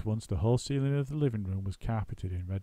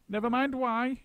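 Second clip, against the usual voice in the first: mock shout; 14 semitones higher than usual. A narrator's reading. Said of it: "shouted Mugglewump".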